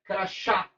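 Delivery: "crachá" with the weight on the last "chá"; final-syllable stress. Shown as a demonstration. Teacher showing the moved stress, "crachá" stressed at the end. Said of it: "mudar a posição da sílaba".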